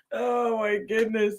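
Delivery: high, slow gasp between laughs; catching breath after laughing; breathless laughing. Real, not acted. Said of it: "laughing so hard".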